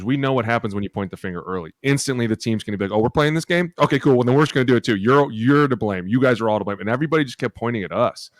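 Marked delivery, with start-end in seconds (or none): 2.9-6.8 mock sarcastic team. Mimics team turning on coaches.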